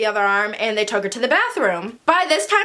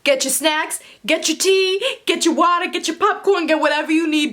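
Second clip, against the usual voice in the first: higher, bouncy list; hyped intro; 6 semitones higher than usual. Acted. Bree hyping viewers before story time, bouncy and higher. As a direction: pump up the viewers. Vlog intro call to grab snacks.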